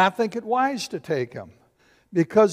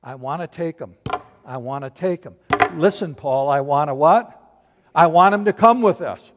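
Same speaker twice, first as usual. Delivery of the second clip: insistent Barnabas; 2 semitones lower, 5 dB louder than usual. Retold or imitated. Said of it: "It's this".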